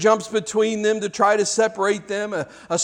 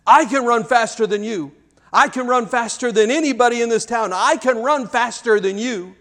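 put-on boy boasting in a wild argument, pitched up; arguing; 5 semitones higher than usual. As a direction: brag heatedly like a competitive little boy. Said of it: "are in a wild argument".

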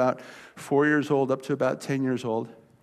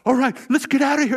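put-on high, loud kid bully backing off; mock-loud retreating bully; bullies giving up; 10 semitones higher, 8 dB louder than usual. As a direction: call the retreat like a spooked kid. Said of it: "they just kinda".

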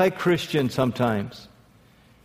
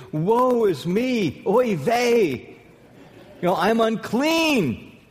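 higher, slow mock wail of a stricken prophet; hammed-up cry of woe, a bit higher; lamenting prophet; 6 semitones higher, much slower than usual. Isaiah at the vision of God, a hammed-up lament. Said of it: "He said".

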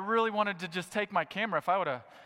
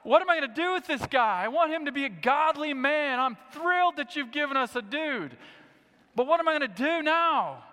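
anxious prayer; 9 semitones higher, 7 dB louder than usual. Retold or imitated.

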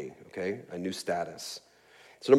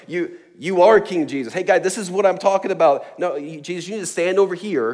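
mock excited, a bit louder and higher; John suddenly thrilled to spot Jesus; hammed-up eager pointing out; excited recognition; 7 semitones higher, 4 dB louder than usual.

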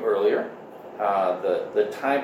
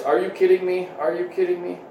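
high-pitched imitation of a little boy; playful little-kid impression, repeated; cute three-year-old voice; 7 semitones higher than usual. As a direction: mimic a cute toddler, pitched way up. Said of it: "little three-year-old voice".

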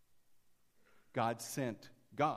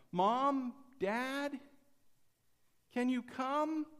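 put-on high, loud call from a child in bed; little girl calling out from her room, high and loud; 11 semitones higher, 5 dB louder, much slower than usual. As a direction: call out for mom and dad like a scared little girl. Girl cries out to parents.

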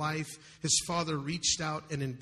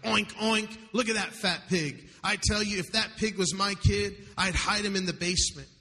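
louder, higher mocking jeers; mild mock heckling, higher and louder; jeering factory men; 4 semitones higher than usual. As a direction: taunt him like crude workmen across the street. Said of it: "loud and degrading remarks".

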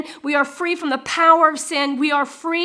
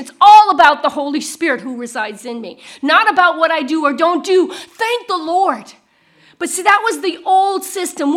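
louder, driving preaching delivery; forceful preaching; 3 semitones higher, 5 dB louder than usual. Acted. Preacher urges the congregation toward freedom in the Spirit, forceful preaching. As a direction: press the point home to the congregation.

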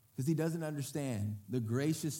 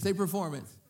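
pushing the crowd to answer louder; say it like you mean it; 4 semitones higher, 4 dB louder than usual. Shown as a demonstration. Pastor to congregation, asking for a fuller response, firmer. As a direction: urge them to say it with conviction. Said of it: "say it like you mean it".

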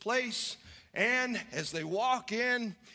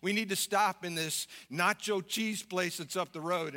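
lightly voiced Yankee husband; a hint of a Northern drawl. Husband asking his wife to stop, lightly put-on Yankee drawl. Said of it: "in his Yankee drawl".

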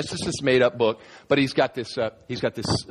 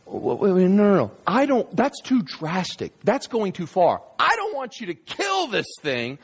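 worried pleading; 10 semitones higher than usual. Acted. Man begging the angel not to kill his dragon, worried high pleading. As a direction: plead anxiously, stretching the objections. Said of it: "so now he's really worried".

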